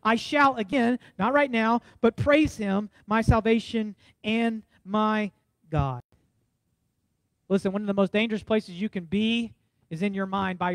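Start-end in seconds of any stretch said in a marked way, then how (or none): 0.0-6.0 preached scripture, slow. Acted. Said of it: "Verse eleven".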